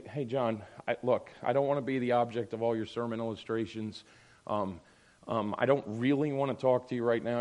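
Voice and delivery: low, subdued and hesitant; reluctant confrontation. Acted. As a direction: imitate someone carefully raising a concern. Imagined reluctant member confronting the pastor.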